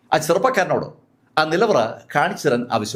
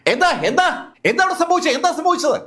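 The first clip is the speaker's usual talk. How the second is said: higher, alarmed call from inside the vault; 10 semitones higher than usual. A narrator's reading. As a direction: shout the question up through the floor. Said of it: "ഉറക്കെ പുറത്തേക്ക് വിളിച്ചു ചോദിക്കുകയാണ്". (ഉയർന്ന സ്വരത്തിൽ പരിഭ്രമിച്ച് വിളിച്ചു ചോദിക്കൽ)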